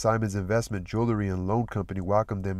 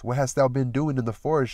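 lightly cooed question, a touch higher; cooing; 4 semitones higher, 3 dB louder than usual. Acted. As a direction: coo it sweetly at him. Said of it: "she cooed".

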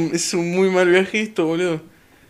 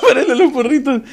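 laughing repeat; 5 semitones higher, faster than usual. Real, not acted. Repeats chat line laughing.

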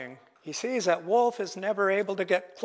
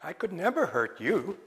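pleading Raven; 4 semitones higher than usual. Acted. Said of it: "And said".

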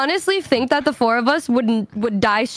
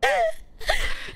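startled gasp; 6 dB quieter than usual. Retold or imitated. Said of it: "I hear Yuzu go".

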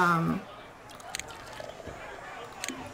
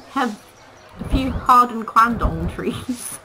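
mock grand offer; 4 semitones higher, 6 dB louder, slower than usual. Offering trees to the animals.

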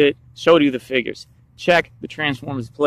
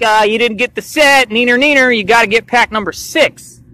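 taunting; 5 semitones higher than usual. Retold or imitated. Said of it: "They're like".

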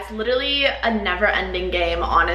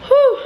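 relieved exhale; 14 semitones higher, 7 dB louder than usual. Real, not acted. Relief after choking.

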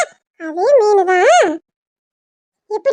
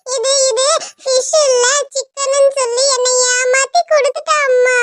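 mildly whiny tattling to mum; acted sulky crying; tearful complaint; 2 semitones higher than usual. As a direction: complain tearfully, drawing out the final word. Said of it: "அவ அழுவுறா".

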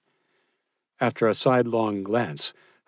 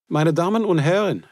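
a lightly voiced German host, raised and formal, slowing on the name; Otto's formal announcement; 11 semitones higher, 7 dB louder than usual. A narrator's reading. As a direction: present the guest of honour to the room, a touch grand. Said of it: "Otto said to the group".

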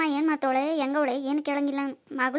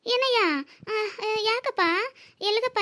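calling out; 4 semitones higher than usual. Acted. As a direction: call out across the road. Calling out to passing nephew.

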